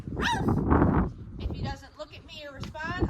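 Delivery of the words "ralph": high sharp call of the dog's name; loud high call to a distracted dog; calling his name. Shown as a demonstration. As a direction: call out to grab the dog's attention. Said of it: "I'm gonna say".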